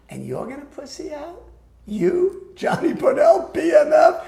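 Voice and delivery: a touch of shouting dare; mock taunt. Bill taunting him to streak.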